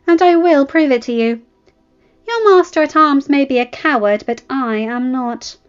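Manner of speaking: high, loud mocking prince voice; a haughty young prince sneering, lifted and loud. Prince taunting the bastard: loud high sneer.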